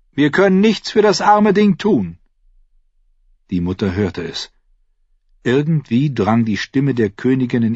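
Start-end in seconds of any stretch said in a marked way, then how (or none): 0.1-2.2 high, carrying queen's call. A narrator's reading. Queen to the king about the dead child, calling out high. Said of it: "rief Kerser dem König zu".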